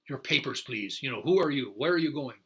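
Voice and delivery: lightly voiced checkpoint officer demanding answers; a hint of stern police questioning; fascist state official. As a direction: put some official force into the demand. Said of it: "what is this fascist state".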